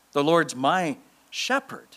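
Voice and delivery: slow, even; steady the phrase. Shown as a demonstration. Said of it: "what are those words?".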